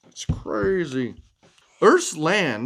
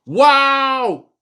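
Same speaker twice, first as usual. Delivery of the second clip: impressed wow; 10 semitones higher, 8 dB louder than usual. Real, not acted. Praising child's big number.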